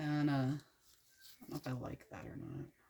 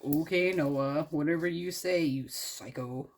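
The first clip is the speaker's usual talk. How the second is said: sarcastic brush-off; 3 dB louder, slower than usual. Retold or imitated. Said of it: "they're like".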